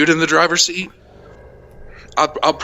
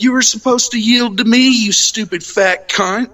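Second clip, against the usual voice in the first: high, raging road-rage yell; furious yell; 10 semitones higher, 3 dB louder than usual. Retold or imitated. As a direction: yell it out the window at her. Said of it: "I was fucking flipping".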